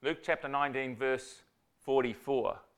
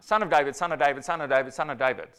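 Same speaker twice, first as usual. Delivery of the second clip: mock cry for help, a bit louder; 6 dB louder, faster than usual. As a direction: call out to Jesus, pleading. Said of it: "crying out".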